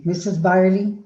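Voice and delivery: retold loud call to a teacher. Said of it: "in a loud voice".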